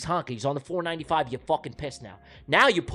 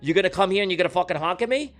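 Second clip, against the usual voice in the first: road rage rant. Retold or imitated. Angry driver yelling at Tony for honking. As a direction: yell out the car window, fed up.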